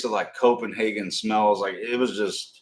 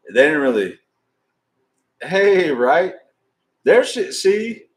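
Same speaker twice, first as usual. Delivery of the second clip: excited; 8 semitones higher, 7 dB louder, slower than usual. Real, not acted. Excited real aside to audience.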